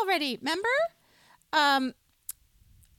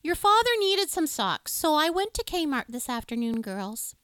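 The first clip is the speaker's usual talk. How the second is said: lightly voiced upset mom, a bit higher; a hint of a fretful mom breaking bad news; mom impression; 4 semitones higher, 3 dB louder than usual. Mom telling the girls, mild upset mom voice. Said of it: "your mom impression".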